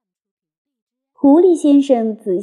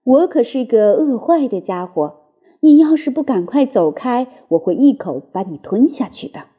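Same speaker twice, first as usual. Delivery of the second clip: gently menacing. Acted. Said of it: "他温和地说".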